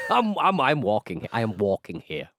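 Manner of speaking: lightly hammed New Jersey tough guy; New Jersey accent. Co-host parodying the American character, New Jersey accent. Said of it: "one of the characters was from New Jersey".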